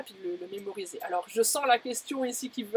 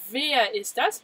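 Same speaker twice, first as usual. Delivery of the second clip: curious who-is-that; 4 dB louder, much slower than usual. Shown as a demonstration. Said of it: "Mais c'est qui celui-là?".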